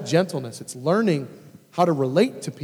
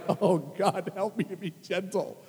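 hushed prayer; 2 semitones higher, 9 dB quieter than usual. Retold or imitated. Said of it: "And I'm like".

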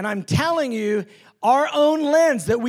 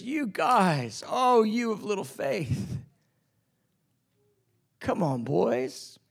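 gentle Jesus; 6 dB quieter, slower than usual. Acted. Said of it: "he goes".

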